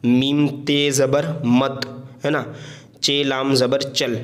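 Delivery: letters named slowly one by one; slow patient spelling drill. Shown as a demonstration. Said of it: "इससे मिलाएंगे".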